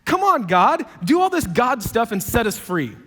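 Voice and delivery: fired-up Moses cheering God on; excited cheer. Retold or imitated. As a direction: cheer God on with a jump in pitch. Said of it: "you're like".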